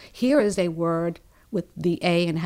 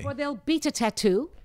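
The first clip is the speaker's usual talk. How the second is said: coach's model line in a New Orleans accent, higher, beat rising; 6 semitones higher than usual. Shown as a demonstration. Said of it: "It's difficult".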